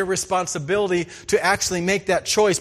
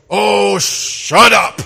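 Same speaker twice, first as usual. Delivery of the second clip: louder, laughing shut up; laughing grandpa; 2 semitones higher, 9 dB louder, much slower than usual. Retold or imitated. Grandpa caught stuck in the mud, telling the grandson through laughter. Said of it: "Grandpa looks at me and goes".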